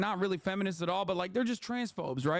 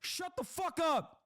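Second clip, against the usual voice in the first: dismissive; 7 semitones higher, 4 dB quieter than usual. Real, not acted.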